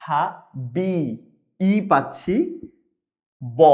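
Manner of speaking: হা, বি, ব said one by one with pauses; sounds split apart. Shown as a demonstration. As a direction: spell out হাবিব by its sounds. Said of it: "একটা আ পাচ্ছি". (হাবিব ভেঙে ভেঙে বলা)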